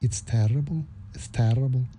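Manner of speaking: mock a heartbroken man in a failed Scottish accent; terrible Scottish accent. Mocking Francis in a terrible Scottish accent. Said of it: "Terrible accent".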